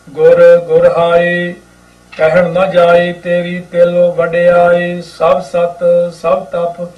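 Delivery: slow, measured chanting read of the hymn; unhurried gurbani recitation; scripture recitation. Acted. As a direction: recite each word slowly and devoutly.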